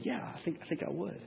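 hesitant acted reply. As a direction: agree quietly, stumbling a little. Acted reply of the questioned missionary.

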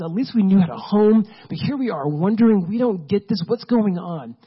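mock the grumblers lightly, complaining to God; grumbling Israelites. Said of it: "grumbling and complaining and going".

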